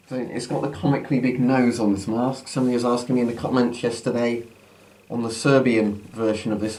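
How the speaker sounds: muffled behind a gas mask; talking through a mask. Real, not acted. Mask put on at line 40.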